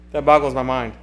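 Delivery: talking through a yawn. Real, not acted. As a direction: stretch the words out with a yawn. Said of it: "Sorry, I'm yawning".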